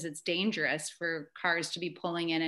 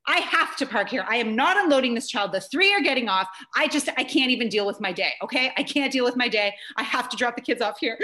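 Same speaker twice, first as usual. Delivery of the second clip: insistent, slightly raised frazzled arguing; retold screaming back; 3 semitones higher, 4 dB louder, faster than usual. Mom refusing to move her van, arguing back. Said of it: "I'm screaming back at her".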